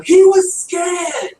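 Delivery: put-on high, loud British-accented yell, drawn out; yelling Doctor. Podcaster imitating the Doctor defending the pig, mock British yell. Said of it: "The doctor yells at him".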